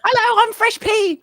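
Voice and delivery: very high squeaky cartoon voice; girly chipmunk voice. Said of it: "his girly chipmunk voice".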